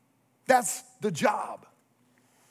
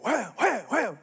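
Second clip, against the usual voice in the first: mock hook-set; 7 semitones higher than usual. Setting the hook on the fish.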